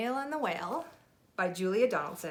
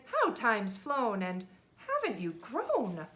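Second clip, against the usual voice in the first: fond snails greeting; 4 semitones higher, slower than usual. Acted. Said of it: "who said".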